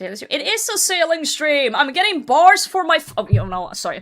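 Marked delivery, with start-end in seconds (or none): 0.3-3.1 high-pitched, shouting yell. Reacting on a game stream, yelling. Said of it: "Sorry for yelling".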